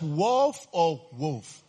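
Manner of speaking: WOLF said two ways, vowel shifted the second time; two pronunciations compared. Shown as a demonstration. Preacher asking the congregation how a word sounds, two pronunciations compared. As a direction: try "wolf" with one vowel, then the other.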